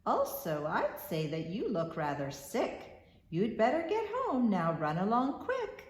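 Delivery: lightly voiced old grocer, fond; a hint of a fussy shopkeeper calling her dearie; kindly grocer. Grocer telling Maggie she lacks money, lightly voiced. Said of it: "he said".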